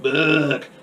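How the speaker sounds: lightly voiced alien parroting; imitated alien echo. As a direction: echo the word like a little alien. Repeats it as film's alien.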